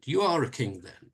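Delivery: mild exclamation, "are" lifted then falling; lightly exclaimed, with stress on "are". Shown as a demonstration. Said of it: "with an exclamation mark at the end".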